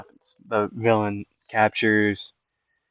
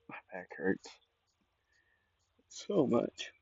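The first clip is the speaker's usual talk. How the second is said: whisper; 15 dB quieter than usual. Real, not acted. Complaining of back pain.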